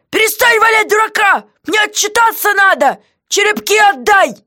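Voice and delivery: high, loud, demanding; jailer's voice, cross and insistent; angry jailer. Acted. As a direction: bark at the silent prisoner. Guard voiced by reader.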